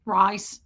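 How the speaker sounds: "Rice" as a Southern "Rahs"; Southern pronunciation. Retold or imitated. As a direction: say "Rice" with a drawled Tennessee vowel. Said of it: "he calls me Rice".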